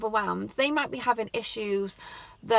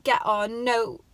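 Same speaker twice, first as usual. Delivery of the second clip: mock angry grandad; 4 dB louder than usual. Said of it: "he was like".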